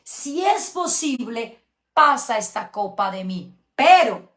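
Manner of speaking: the flesh begging to be spared; anguished plea. Retold or imitated. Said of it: "una oración mezclada, carne y espíritu".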